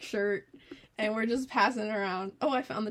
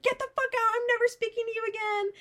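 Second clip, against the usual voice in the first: high-pitched mock yell; retold furious friend, pitched up; imitating angry yelling; 12 semitones higher than usual. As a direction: throw her out in a high, mad voice. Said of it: "yelling at her".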